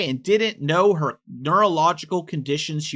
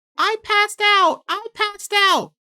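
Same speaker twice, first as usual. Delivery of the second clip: very high, drawn-out whiny wail; 3 dB louder than usual. Retelling a witness account of what the defendant kept repeating, in a mock whining voice. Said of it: "they use the whining voice".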